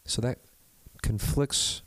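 cool, measured courtroom calm; slow and steady, unbothered; calm lawyer voice. Retold or imitated. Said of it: "It's so calm".

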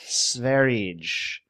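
Sverige repeated slowly the Swedish way; Swedish pronunciation. Shown as a demonstration. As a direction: say Sverige again, carefully. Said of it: "trying not to butcher the pronunciation".

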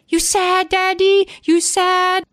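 put-on high little-kid voice, worried; high toddler asking if daddy is sad. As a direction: ask like a confused toddler. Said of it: "the little boy is like".

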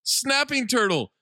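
high amazed villain exclamations; Shredder voice. Acted. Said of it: "Shred's position says".

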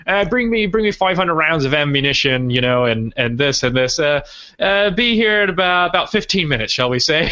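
hammed-up British boss giving orders; casually in control, in a mock British accent; crappy British accent. Mister Bean casually ordering ammunition from Petey, in a crappy British accent. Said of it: "here comes my crappy British accent".

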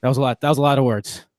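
out of breath after a long read; winded, catching breath with a sigh. Real, not acted. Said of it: "I need to catch my breath".

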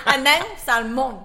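laughing through the words; giggling while speaking. Real, not acted. Laughing at the joke.

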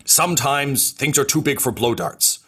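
theatrical lecturer, building in insistence; pontificating schemer. Acted. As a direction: explain it like grand wisdom to a junior. Phalox explains his blow dart plan.

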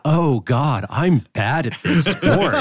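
high, drawn-out lament through a laugh; mock dismay. Skier realising how slow they were, laughing mock dismay. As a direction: moan it slowly, laughing at yourself.

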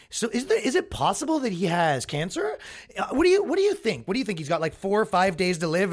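high, over-eager interviewer; mock alarmed questioning. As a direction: press the doctor with hammed-up concern. Mocking news panel questioning a doctor.

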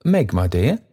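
put-on kindly old man pressing his offer. Trotty offering the stranger lodging, eagerly.

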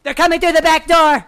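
high, loud panicked bee cry. Pretend. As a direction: shriek the alarm as a bee. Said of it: "dialogue as bees".

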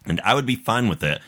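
measured, lilting read-aloud; listener email read-aloud. A narrator's reading. Host reading Kendra's email to listeners, measured read-aloud. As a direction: read the letter out for an audience.

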